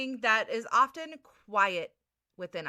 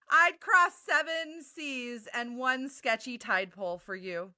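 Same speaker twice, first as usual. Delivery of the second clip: love bombing. Acted. Cheesy fish valentine lines.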